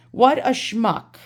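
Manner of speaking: slow, high scornful jab; drawn-out disdain. Real, not acted. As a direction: savour the insult slowly. Insulting the seller.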